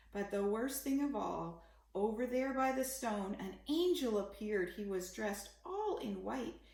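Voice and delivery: put-on gentle read-aloud for children; story narration. A narrator's reading. Parent reading a bedtime picture book, gentle storytelling. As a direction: read the rhyming story to a little one.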